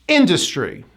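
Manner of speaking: Industry as IN-dus-try; Industry, falling after the first syllable; high then drop. Shown as a demonstration. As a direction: stress IN, fall away in Industry. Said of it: "You hit it high and you drop".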